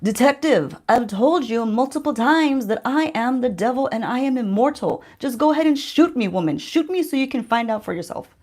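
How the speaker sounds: lightly acted devil declaring himself to a detective; Lucifer. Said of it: "he looks back at her and he's like".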